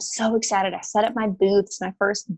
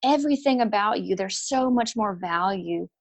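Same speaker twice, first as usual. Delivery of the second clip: tender divine voice; 3 semitones higher than usual. Retold or imitated. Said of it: "God's like".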